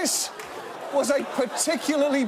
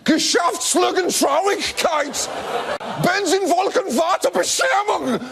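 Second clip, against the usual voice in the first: shouted German compounds; 10 semitones higher than usual. Acted. Germany announcing itself, high bellowed German words. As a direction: belt each compound like an opera finale.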